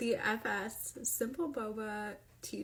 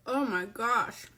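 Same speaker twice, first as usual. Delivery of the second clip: excited; 7 dB louder than usual. Real, not acted. First sip of favourite drink.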